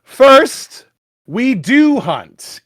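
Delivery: slow, portentous read; dramatic reading. Acted. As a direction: read it like a solemn decree. Reading vampire text dramatically.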